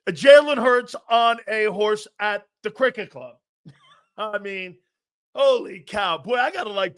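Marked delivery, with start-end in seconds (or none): 0.1-3.4 louder, stunned repeat of what he saw; disbelieving, louder retelling of the sight; incredulous disbelief. Real, not acted. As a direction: say it like you can't believe your eyes. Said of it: "did I see that?".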